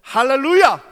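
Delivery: loud, high, ringing shout; ringing hallelujah. Acted. Pastor crying out hallelujah to the congregation. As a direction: throw it out to the whole hall.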